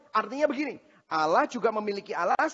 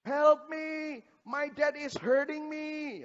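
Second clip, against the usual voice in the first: put-on high, drawn-out toddler wail; imitated little-kid crying, pitched way up; crying child; 9 semitones higher, much slower than usual. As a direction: plead like a small child in tears. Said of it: "Dia nangis. Dia bilang".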